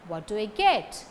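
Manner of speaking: "What" and "get" stressed, weak "do I". Shown as a demonstration. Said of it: "What and get takes stress".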